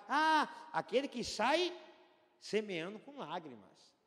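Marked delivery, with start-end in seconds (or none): none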